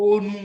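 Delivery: "অনু" said slowly with its অ sounding like ও; "অনু" carefully pronounced with an ও-like vowel; o sound demo. Shown as a demonstration. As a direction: stretch "অনু" so the first vowel comes out as ও. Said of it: "উচ্চারণটা ওর মতো হয়েছে".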